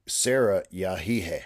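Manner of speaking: Sarah called out loud, then yahihe asked; calling roll. Shown as a demonstration. Teacher taking attendance, calling a student by name. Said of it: "So it becomes".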